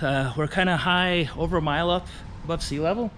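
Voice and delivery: winded, catching breath between words. Real, not acted. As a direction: talk while still panting from the climb. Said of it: "Sorry I'm out of breath".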